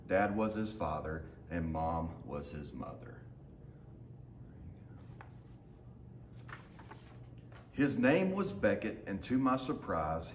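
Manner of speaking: lively storybook reading in the dog's voice; reading to children. A narrator's reading. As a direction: read it like a picture book for a class. Teacher reads picture book aloud.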